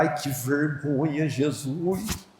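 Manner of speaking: soft, slow mortified moan; embarrassed groan. Retold or imitated. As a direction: cringe quietly at the shame. (lamento baixo e lento de vergonha)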